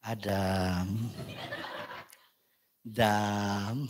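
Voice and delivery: low, soft Javanese Solo calling; Solo accent. Retold or imitated. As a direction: coax Adam gently, Solo style. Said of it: "Karena orang Solo begini".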